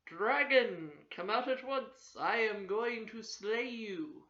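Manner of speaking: loud call into the cave. Acted. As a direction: call it boldly into the dark. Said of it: "called in".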